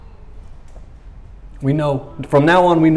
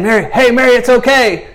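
tender comfort; 8 semitones higher, 5 dB louder than usual. Pretend. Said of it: "Instead of saying".

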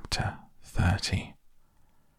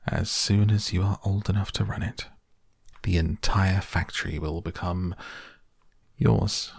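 smiling. Acted. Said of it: "a smile appeared".

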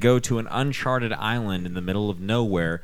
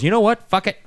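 higher, louder exasperated burst; fed-up outburst; 9 semitones higher, 6 dB louder than usual. Retold or imitated. The professor snapping about the garbage can, higher and louder. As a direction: snap like a man at the end of his rope. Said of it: "And then he goes".

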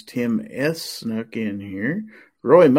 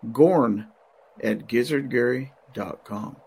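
slow dictation. Shown as a demonstration. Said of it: "you might need to write this down".

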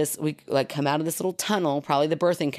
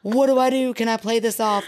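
higher, louder flustered scramble; mock embarrassed panic; 5 semitones higher, 4 dB louder than usual. Teller caught peeing on a stranger, mock panic. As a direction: act out a flustered cover-up. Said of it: "like, sheer terror, but also embarrassment".

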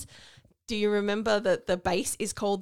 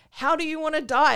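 Idris Elba; 8 semitones higher, 8 dB louder than usual. Retold or imitated. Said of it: "Idris Elba is like".

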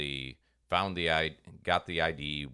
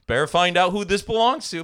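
higher, louder mock goody-goody voice; mock dutiful; 11 semitones higher, 10 dB louder than usual. Himself finding a wallet, mock dutiful. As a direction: play the overly dutiful do-gooder.

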